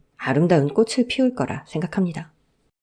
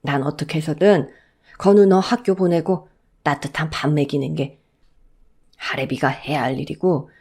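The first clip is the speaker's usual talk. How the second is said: sad, gentle grandfather. Acted.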